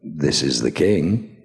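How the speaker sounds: slow and self-important; lightly voiced pompous king; slow mock-regal line. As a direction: announce yourself like royalty. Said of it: "I thought it'd be funny to go".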